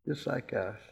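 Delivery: laughing repeat. Real, not acted. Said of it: "laughs, repeats it".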